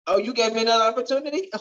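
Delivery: fast, delighted rush; racing back to the school, overjoyed. Retold or imitated. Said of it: "I went running".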